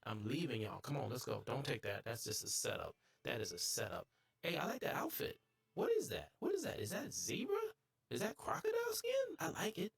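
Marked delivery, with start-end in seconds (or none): 4.4-9.9 much higher, gushing over the outfit; excited. Real, not acted. Gamer admiring another player's outfit, excited and high. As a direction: squeal with delight.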